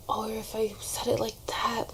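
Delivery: hushed worried whisper to herself; retold anxious whisper. To herself after an audition, a worried whisper. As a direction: whisper the second-guessing. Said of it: "nervous and anxious about my auditions".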